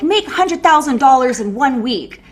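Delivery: mock hype promo. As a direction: sell it like a get-rich-quick ad. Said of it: "accounts that are like".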